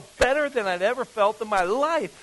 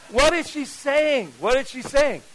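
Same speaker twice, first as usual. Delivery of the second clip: bewildered; 6 semitones higher, 4 dB louder than usual. Retold or imitated. Confused by the yelling lady.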